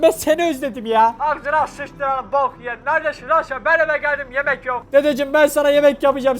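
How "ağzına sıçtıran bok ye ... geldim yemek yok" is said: grumpy grandpa voice. Acted. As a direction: grumble like an annoyed old man on the phone. (telefondaki huysuz dedeyi hafifçe taklit ederek)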